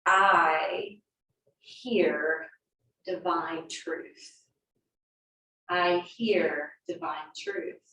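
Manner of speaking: slow, deliberate affirmation voice. Shown as a demonstration. Voicing the friend's suggested affirmation, slow and meditative. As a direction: draw each word out like a mantra. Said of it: "Why don't you try affirming".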